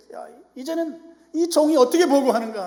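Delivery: loud, high rhetorical question from the pulpit; full-force preaching. Acted. Preacher asking how the servant reports, full-force preaching.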